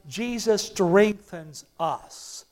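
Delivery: slow, with "strengthens" stressed and a falling end; slow emphatic declaration. Shown as a demonstration. Preacher leading the church to repeat, slow and stressed. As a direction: lean hard on "strengthens", let it fall. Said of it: "Say that with me".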